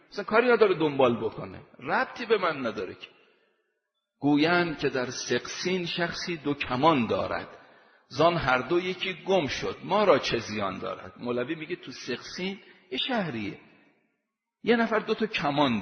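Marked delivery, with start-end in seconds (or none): 4.2-11.2 slow, measured verse reading; recited like classical Persian poetry; poem recitation. Acted. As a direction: lay out each line of the poem slowly.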